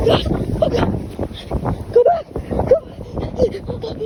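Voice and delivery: high, loud urgent cry; panicked yell. Real, not acted. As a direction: yell to get out fast. Panicked in cold water.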